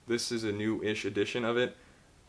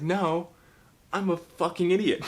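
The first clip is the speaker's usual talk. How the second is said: high, loud, laughing panic; mock-frantic outburst; panicked self-loathing; 8 semitones higher, 3 dB louder than usual. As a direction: freak out at yourself, half laughing.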